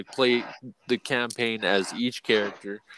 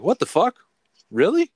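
high, louder incredulous reaction; mock disbelief; 11 semitones higher, 5 dB louder than usual. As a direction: act stunned at fifteen years.

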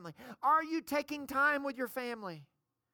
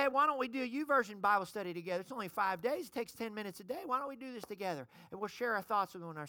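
quick friendly invite; 3 semitones lower, faster than usual. Retold or imitated. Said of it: "You can say".

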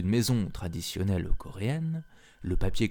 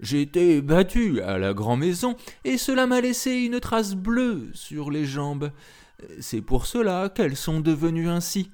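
growling tiger voice; 7 semitones higher, 3 dB louder than usual. A narrator's reading. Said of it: "répliqua le tigre".

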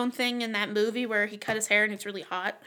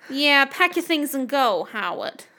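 bored diva; 2 semitones higher, slower than usual. Pretend. Imagined divorce scenes, diva voice.

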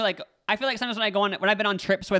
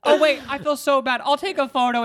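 high, loud, drawn-out guilty gush; mock guilty apology; 8 semitones higher, 5 dB louder, slower than usual. Storyteller imitating girl's whole apology, high hammed-up guilt. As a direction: exaggerate her apology way up high. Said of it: "going to the whole, like".

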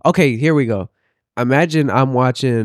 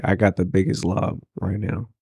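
whispering; 3 semitones lower, 4 dB quieter than usual. Real, not acted. Whispering a joke aside.

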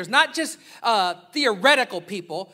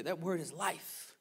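much softer, slow and rising; slow quiet echo; 3 semitones lower, 12 dB quieter, slower than usual. Acted. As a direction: let it fall to a hush.

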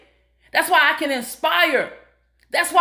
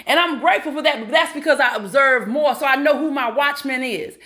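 ordinary delivery

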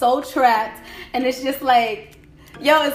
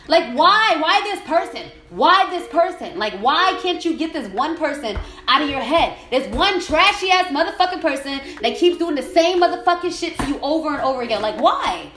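exasperated; 3 semitones higher than usual. Real, not acted. Venting over one person stuck in their head, exasperated. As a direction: demand an answer, exasperated.

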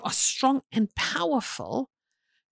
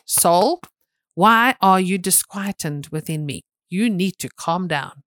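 firm, louder order to his own soul; stern self-command; 4 dB louder than usual. Retold or imitated. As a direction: command your soul to calm down. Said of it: "beat my chest going".

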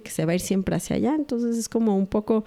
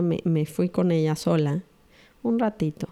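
ordinary delivery

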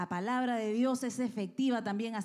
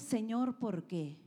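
a whining why, falling away at the end; the wrong prayer, a complaint; complaining; slower than usual. Shown as a demonstration. Preacher to the congregation, showing the wrong prayer, a complaining why. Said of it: "No es".

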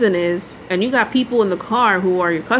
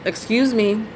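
polite. Retold or imitated. Polite to the cab driver on the phone, gently. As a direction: ask nicely, not wanting to interrupt. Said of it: "So I said politely".

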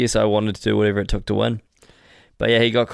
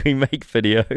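broken English. Pretend. Joking broken-English echo.

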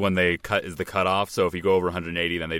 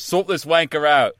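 quoted line in a mock Cockney accent; lightly put-on Cockney, pitched up; 5 semitones higher than usual. Co-host quotes an actor's movie line, imitating Cockney. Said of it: "he's trying out a Cockney accent".

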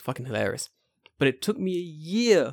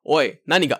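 sudden drop from squeaky to scolding; mock-scary telling-off in a normal-pitched voice; mad teacher; 4 dB louder than usual. Teacher turning mad on the pupils, imitated scary voice. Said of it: "when she's mad, it's scary".

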